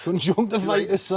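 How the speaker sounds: conjunctivitis said in a northern accent. Shown as a demonstration. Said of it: "accent for certain words".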